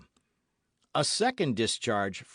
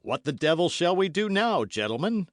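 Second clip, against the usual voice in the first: raised, higher voice in alarm; cried out; 5 semitones higher, 4 dB louder than usual. Acted. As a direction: cry out to his fellow musketeers in sudden alarm. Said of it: "cried Athos".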